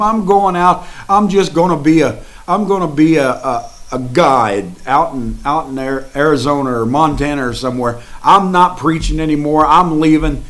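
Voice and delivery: quitting in exasperation; fed-up outburst. Retold or imitated. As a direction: Branham giving up preaching, loud and exasperated. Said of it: "He had a nervous breakdown".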